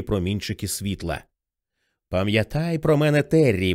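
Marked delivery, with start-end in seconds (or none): 2.1-3.7 put-on pleading boy voice. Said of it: "благально провадив той самий хлоп'ячий голос".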